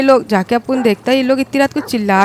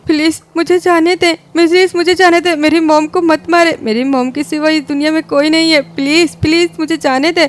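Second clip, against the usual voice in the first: tearful begging; 3 semitones higher than usual. Acted. Son begs to be released.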